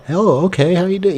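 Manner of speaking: high, light customer-service greeting; fake-ass voice. Speaker greeting customers as dad did, fake-ass voice. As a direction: chirp it in a put-on polite voice. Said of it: "that fake-ass voice".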